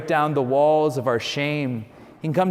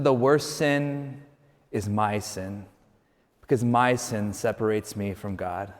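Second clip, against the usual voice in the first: slow, hushed retold answer, sinking lower; very calm; 4 semitones lower, 4 dB quieter than usual. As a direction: let it settle calmly, growing softer. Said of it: "he said very calmly".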